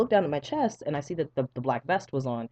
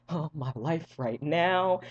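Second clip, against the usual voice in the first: disbelieving squeal; much slower than usual. Retold or imitated. Reacting to blood.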